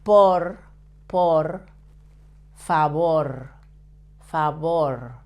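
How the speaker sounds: POR and FAVOR with a lightly vibrated final R; tongue-tip R. Shown as a demonstration. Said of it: "If you vibrate a little bit the tip of your tongue".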